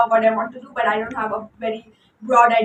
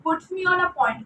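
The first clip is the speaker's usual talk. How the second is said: Indian accent. Real, not acted. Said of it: "I'm really going on with my Indian accent today".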